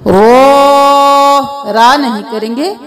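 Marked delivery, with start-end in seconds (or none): 0.1-1.7 رو said full and heavy, not را. Shown as a demonstration. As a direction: round and thick رو. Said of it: "اس کو بھی ہم پر پڑھیں گے". (رو موٹا پڑھیں)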